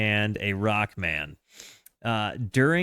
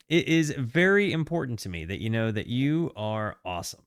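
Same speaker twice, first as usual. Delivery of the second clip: sincere, tender; 3 semitones lower than usual. Real, not acted. Heartfelt message to viewers before playing.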